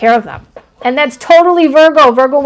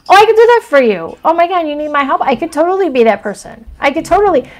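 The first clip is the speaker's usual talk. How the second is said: eager helper; 4 semitones higher, faster than usual. Retold or imitated. Playing the eager-to-help Virgo.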